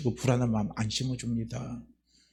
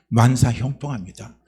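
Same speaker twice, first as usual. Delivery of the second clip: 만사형통합니다 said louder with a falling close; emphatic repeat; 5 dB louder than usual. Real, not acted. Pastor assuring the church, 만사형통합니다 declared loud.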